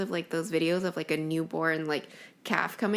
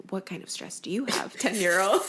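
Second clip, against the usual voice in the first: mocking laugh. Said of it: "laughed at me 'cause they were like".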